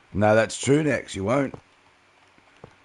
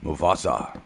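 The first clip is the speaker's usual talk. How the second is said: Mufasa voice; 4 semitones lower than usual. Pretend. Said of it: "like the Mufasa voice".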